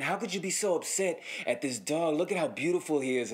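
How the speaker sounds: lightly imitated doting over a pet; mildly put-on wounded fondness; weird dog cooing. Dog owner fussing over his dog at the homeowner, lightly cooing. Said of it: "petting the dog in this weird-ass way".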